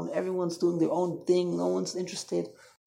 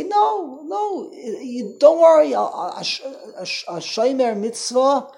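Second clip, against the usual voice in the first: emphatic rebuttal; 3 semitones higher, 5 dB louder, slower than usual. Retold or imitated. Voicing the opposing opinion reassuringly.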